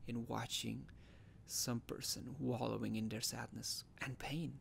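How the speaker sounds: brooding monologue. Acted. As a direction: muse softly with weighted pauses. Mock dramatic monologue.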